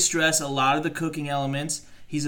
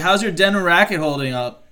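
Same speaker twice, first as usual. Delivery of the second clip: mocking; 4 semitones higher, 8 dB louder than usual. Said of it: "I was like".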